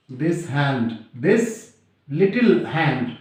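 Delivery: slow, heavy reading with long pauses between phrases; slow dramatic recitation. Shown as a demonstration. Teacher reciting Macbeth's line to the class, slowly and gravely. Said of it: "very famous statement made by Macbeth".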